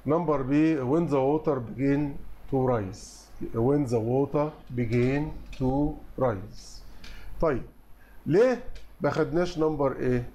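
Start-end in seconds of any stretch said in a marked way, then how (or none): 0.8-3.3 slow, careful answer read; slow dictation. Shown as a demonstration. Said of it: "teacher reads answer slowly". 3.5-6.8 slow, careful second reading; slow repeat. Shown as a demonstration. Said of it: "teacher repeats answer slowly".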